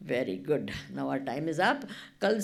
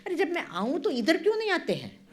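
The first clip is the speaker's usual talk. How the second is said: laughing tease; 7 semitones higher, much faster than usual. Real, not acted. Teasing retort, laughing.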